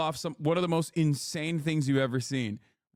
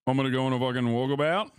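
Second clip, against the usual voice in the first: bad Aussie accent. Streamer doing a bad Australian accent for chat. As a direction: ham up a cartoon Aussie patriot. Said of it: "the streamer has the worst Aussie accent".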